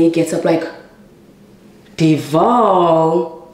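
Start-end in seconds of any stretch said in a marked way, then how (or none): 2.0-3.5 evil voice. Retold or imitated. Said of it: "Like, evil".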